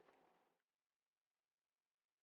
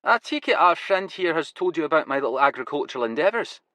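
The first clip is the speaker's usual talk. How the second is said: put-on Glasgow accent; 6 semitones higher than usual. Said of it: "his Glasgow accent now going full throttle".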